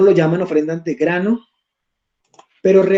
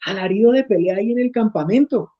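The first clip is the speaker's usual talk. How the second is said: Josué; 5 semitones higher than usual. Acted. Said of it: "dijo a Moisés".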